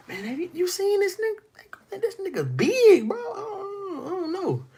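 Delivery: squeaky falsetto panic, nearly whimpering; mock terrified. Israelite soldier gaping at Goliath, in mock terrified falsetto. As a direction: play it as a terrified soldier near tears. Scared Israelites voiced comically.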